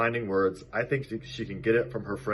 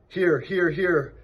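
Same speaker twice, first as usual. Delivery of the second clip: high, loud honking triple; goose voice; 9 semitones higher, 4 dB louder, slower than usual. A narrator's reading. Goose answering the roll call, high honking repeat. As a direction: honk the words like a goose.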